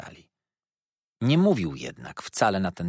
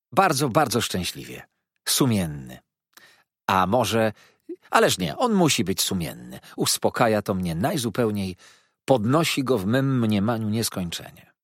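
put-on sweetly insincere, pitched up young woman; mock-naive lady. Miss Dartle teasing Mrs Steerforth, sweetly insincere. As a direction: feign innocent puzzlement.

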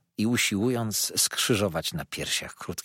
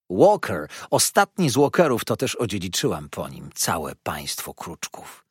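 emphatic dwarf lady; 3 semitones lower than usual. Acted. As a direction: plant Walker firmly, lightly voiced. Powtarza nazwisko z naciskiem. (dobitnie, głośniej: Walker)

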